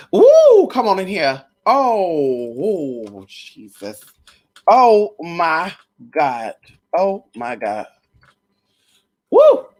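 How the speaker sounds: hammed-up revival cries, drawn out; mock church shouting. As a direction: whoop like a preacher catching the spirit.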